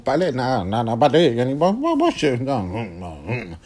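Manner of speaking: flustered stammer jumping in pitch; cracking voice. Acted. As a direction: waver between yes and no, voice breaking upward.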